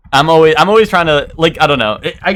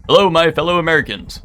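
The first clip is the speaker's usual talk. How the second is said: Joe Biden impression; 5 semitones higher than usual. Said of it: "he was like".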